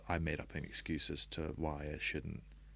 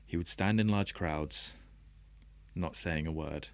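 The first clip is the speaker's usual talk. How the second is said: poem reading. Acted. Reading an old poem aloud to podcast hosts, measured and deliberate. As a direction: let each line land with a pause. Reads his own poem.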